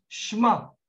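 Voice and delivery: "Shema" as one syllable, shma; "Shema" with sh straight into m; correct pronunciation. Shown as a demonstration. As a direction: say "Shema" with the e dropped. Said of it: "So it's Shema".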